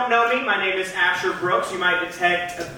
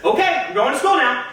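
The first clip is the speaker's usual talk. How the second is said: exasperated son; 6 semitones higher than usual. Acted. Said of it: "And I said".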